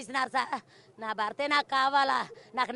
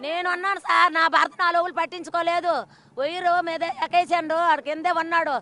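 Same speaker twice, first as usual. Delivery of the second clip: loud, high, grief-stricken pleading; a widow crying out her loss to the reporter; distraught wailing; 3 semitones higher, 8 dB louder than usual. Real, not acted. Widow wailing loudly to the reporter in grief.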